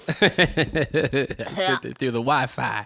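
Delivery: giggling through the words; laughing. Real, not acted. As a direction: laugh while you say it. Joke laughing while speaking.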